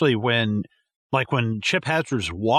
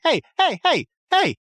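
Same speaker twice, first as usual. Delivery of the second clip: put-on yelling at the kid; 13 semitones higher than usual. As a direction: holler at the kid to pick up his bike. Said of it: "I'm like".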